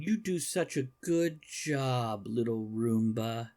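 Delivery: slow, fond praise to a small machine; praising the Roomba. Retold or imitated. Man kneeling over his Roomba, slow fond praise. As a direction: coo at it like a pet. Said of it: "kneeling over his Roomba and saying".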